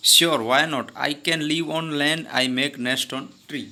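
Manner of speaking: slow, clear read-aloud of the story dialogue. Acted. Teacher reading the story's English lines to her class, slow and deliberate. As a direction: read each English word slowly for the class.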